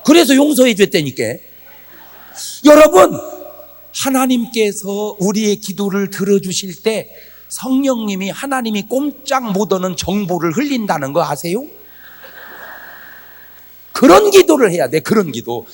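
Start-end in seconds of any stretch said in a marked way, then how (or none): none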